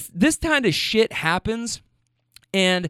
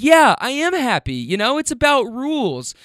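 smug lady imitation; 6 semitones higher, 4 dB louder than usual. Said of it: "And she's like".

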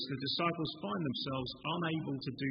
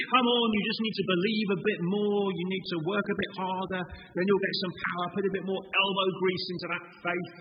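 higher, louder hearty urging; mock pep talk; 4 semitones higher, 3 dB louder than usual. Hearers misreading Jesus, mock pep talk. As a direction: parody a try-harder coach. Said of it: "we so easily hear that as saying".

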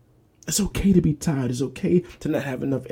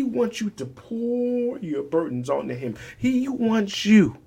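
preaching; 8 semitones higher, slower than usual. Acted. Preacher calling listeners to God, slow rising cry. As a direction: stretch it out slowly, rising.

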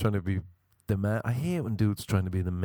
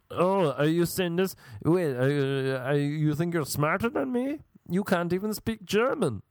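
higher, affected mock-English challenge; theatrical English-sounding man; 7 semitones higher than usual. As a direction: challenge haughtily in a put-on theatrical voice.

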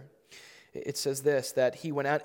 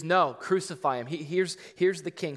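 raised, higher mob cry for crucifixion; crowd shouting; 4 semitones higher, 5 dB louder than usual. Acted. Preacher voicing the mob demanding Jesus be crucified, loud mob shout. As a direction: yell it like an angry crowd.

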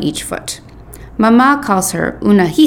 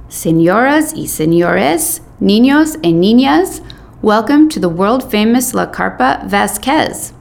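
booming ringmaster; 3 semitones higher than usual. Retold or imitated. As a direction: announce it like a circus ringmaster. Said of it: "a loud, booming voice welcome us".

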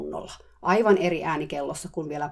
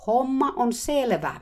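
slow, much higher, loud shout; 8 semitones higher, 5 dB louder, slower than usual. Retold or imitated. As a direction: yell it slowly to the therapist. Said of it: "hehkuva aurinkokin jo huusi". (hidas kova huuto)

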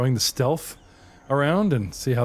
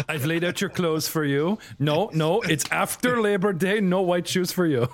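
fussy stylist bard; 5 semitones higher than usual. Pretend. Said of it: "a bard that's a stylist".

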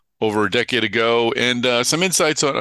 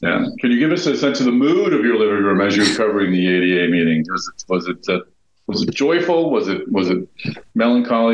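sounds like a bag over the head; muffled, poor headset sound; muffled audio. Real, not acted. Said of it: "I'm gonna be a little muffled".

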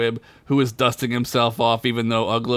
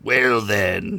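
slightly lower, slow knight voice; gravelly knight; 3 semitones lower than usual. Acted. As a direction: menace them calmly. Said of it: "in a gravelly voice".

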